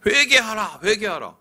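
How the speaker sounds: mock prophet calling out; prophet's cry. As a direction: shout it through the streets like a prophet. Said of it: "외치고 다니던 말이".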